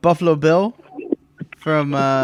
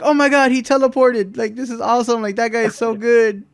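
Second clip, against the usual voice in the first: mock awe; 7 semitones higher, 5 dB louder than usual. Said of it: "they're like".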